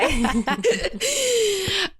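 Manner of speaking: giggling laugh up high; high burst of laughter. Real, not acted. Host laughing at co-host's crush. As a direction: break into laughter.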